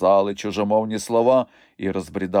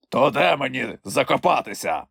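condescending; 4 semitones higher than usual. A narrator's reading. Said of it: "зверхньо поцікавився".

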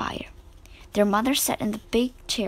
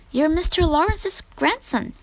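blurting; 6 semitones higher than usual. A narrator's reading. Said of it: "she blurted out".

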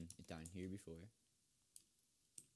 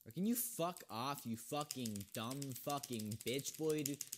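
angry, louder swearing; swearing tirade; 4 semitones higher, 5 dB louder than usual. Real, not acted. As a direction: tell him off, furious. Raging at another player.

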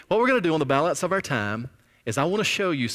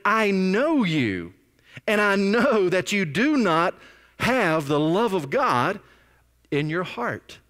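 slow, higher, louder, with weight on every word; Jesus confronting them; 6 semitones higher, 3 dB louder, slower than usual. Acted. Preacher voicing Jesus to the leaders, slow and emphatic. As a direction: stare them down and say it slowly. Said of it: "Jesus looks them square in the eye and he says".

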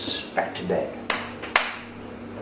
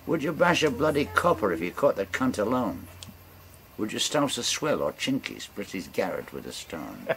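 captain's challenge. Acted. Captain interrogates the stranger.

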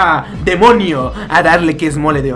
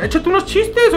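mock command; 13 semitones higher than usual.

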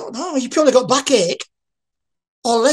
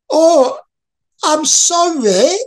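imitating a flustered stranger, high and loud, slow stammered apology; mock-flustered, tripping over the words; 7 semitones higher, 5 dB louder, slower than usual. Stranger apologising awkwardly to the speaker, high flustered voice. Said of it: "Why are you talking funny?".

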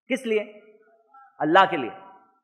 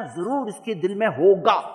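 suspicious thought; slower than usual. Retold or imitated.

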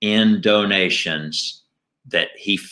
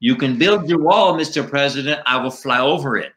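higher-pitched Latino eagle puppet voice; Latino accent; 5 semitones higher than usual. Acted. Eagle puppet taunts the president, higher-pitched Latino accent. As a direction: defy them in a lilting Latino accent. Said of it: "you have a Latino accent".

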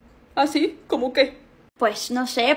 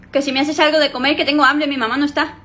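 a bit louder, repeating for dad; 3 dB louder than usual. Acted. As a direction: say it again louder so he hears. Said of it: "¿Cómo, mija?". (repite más fuerte para que papá oiga)

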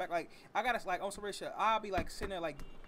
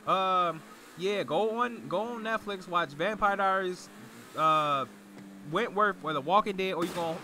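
loud; 10 dB louder, slower than usual. Real, not acted. Shouting show list again.

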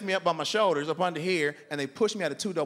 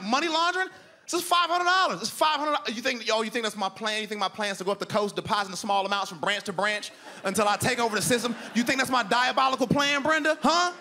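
incredulous outburst; 5 semitones higher than usual. Retold or imitated. Customer mocking Brenda's money laundering idea, high incredulous outrage. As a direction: ride the disbelief up to a squeak.

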